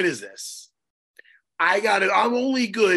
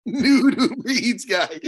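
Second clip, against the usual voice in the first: said through a real laugh, slow; 3 semitones higher, slower than usual. Real, not acted. Host laughing as he teases his co-host about the nude Uber Eats guy. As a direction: laugh the words out while teasing.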